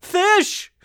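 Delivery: put-on high, loud cracked old-man call; senile fisherman. Old fisherman calling his name, loud and high. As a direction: croak it like a confused grandpa. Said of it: "Sound like a senile fisherman".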